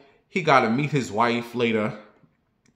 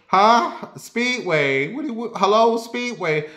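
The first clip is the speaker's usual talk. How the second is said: confused granny; 8 semitones higher, slower than usual. Retold or imitated. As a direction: sound lost, pitch way up. Confused grandma on phone.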